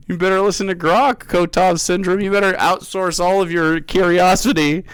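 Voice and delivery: mock the chatter; sarcastic.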